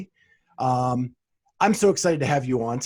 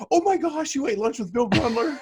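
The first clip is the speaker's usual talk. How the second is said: surprised; 10 semitones higher than usual. Retold or imitated. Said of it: "And they're like".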